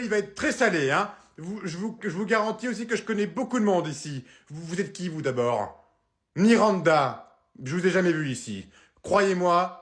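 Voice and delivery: raising the voice at reception, slowed on key words; angry hotel guest. Acted. Guest makes a scene.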